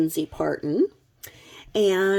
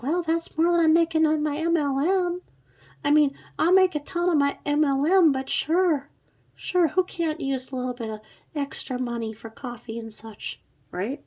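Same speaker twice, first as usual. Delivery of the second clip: higher, put-on breezy bragging voice; mock airy MLM seller; 9 semitones higher than usual. Babysitter accepting thirty-five dollars from dad, mock breezy. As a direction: brush off the money like a smug seller. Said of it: "she's like".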